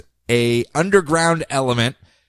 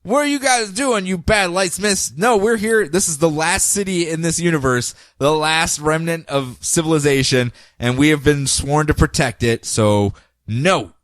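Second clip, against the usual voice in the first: giant people. Retold or imitated. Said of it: "they go".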